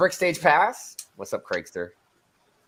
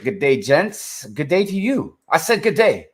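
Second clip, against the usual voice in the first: mock snooty dismissal; 3 semitones higher than usual.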